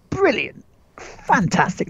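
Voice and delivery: high burst of praise; excited praise. Real, not acted. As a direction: cheer the shot. Praising a great shot.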